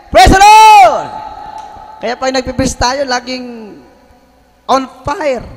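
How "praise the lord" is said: drawn-out loud high shout; slow shouted praise. Real, not acted. Preacher rallies the church, slow loud shout. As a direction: stretch every word into a shout.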